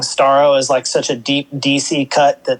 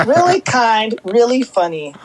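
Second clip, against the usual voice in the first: laughing; 8 semitones higher than usual. Real, not acted. Laughing while praising King Shark.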